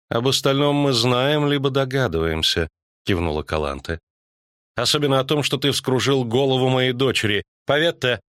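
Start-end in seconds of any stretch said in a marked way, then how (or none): 0.1-2.7 higher-pitched queen, mildly stern. Acted. Королева отвечает строго. 4.8-8.2 higher-pitched, mildly reproachful queen; stern queen. Acted. Королева отчитывает влюблённых.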